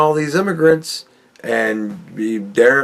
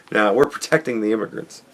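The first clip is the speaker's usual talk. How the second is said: fast giggly throwaway; laughing, rushed; 3 semitones lower, 5 dB quieter, faster than usual. Pretend. Repeating his baddies joke, quick laughing aside. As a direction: rush it out while laughing.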